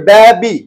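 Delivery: ব্যাবি slowly in two separate beats; split into syllables. Shown as a demonstration. Teacher showing a two-syllable word, ব্যাবি said syllable by syllable. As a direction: break ব্যাবি after ব্যা, pause, then বি. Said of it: "ডাইসিলেবলের মধ্যে পড়ছে".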